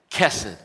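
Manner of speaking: Kesed stressed up front, falling away at the end; first-syllable accent. Shown as a demonstration. Preacher having them try again, Kesed with first-syllable accent. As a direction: punch the first syllable of Kesed, drop the second. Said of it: "the accent's on the first syllable".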